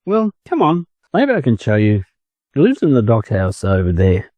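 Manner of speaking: a lightly voiced chicken, eager to show off. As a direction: lead them on as the boastful chicken. Chicken leading the ducklings.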